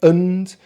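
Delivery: "und" with a reduced schwa before N D; isolated "und" with schwa; schwa syllable. Shown as a demonstration. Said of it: "So with the schwa".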